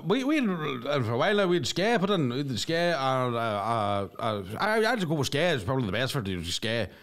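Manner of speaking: put-on hamming up the shopkeeper's Donegal accent. Shopkeeper explains broadband, mock Donegal accent.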